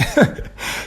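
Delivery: soft voiceless laugh; amused chuckle. Real, not acted. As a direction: laugh quietly at someone's bad luck. Laughing at friend's loss.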